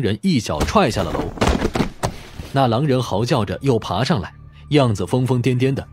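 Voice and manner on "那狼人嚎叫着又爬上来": ordinary delivery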